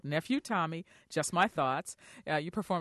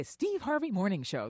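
radio announcer style; 2 semitones higher than usual. Shown as a demonstration. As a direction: show name punched like a radio jingle. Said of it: "the way they do that".

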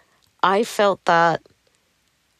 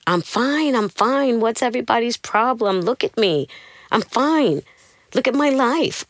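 high, insistent retold protest, pitched up; mock scream of denial; 5 semitones higher than usual. To her husband, imitating her own frantic denial. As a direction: protest too much, voice climbing. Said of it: "I just start screaming again".

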